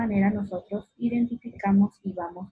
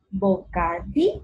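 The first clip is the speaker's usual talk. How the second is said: "bocadillo" by syllables with DI stressed; bo-ca-DI-llo, weight on the third syllable; fuerza en DI. Shown as a demonstration. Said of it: "tiene la mayor fuerza de voz". ("bocadillo" marcando la sílaba DI)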